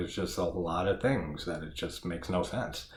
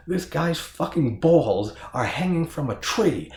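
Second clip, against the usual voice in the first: higher, louder panicky cop voice; freaked-out cop; 9 semitones higher, 5 dB louder than usual. Retold or imitated. Cop freaking out at the massacre, panicked and loud. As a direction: play the spooked cop losing it. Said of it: "totally freaking out".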